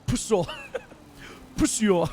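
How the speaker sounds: hammed-up British accent on an insult; put-on British accent. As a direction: play around with a British accent. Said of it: "cook in this accent".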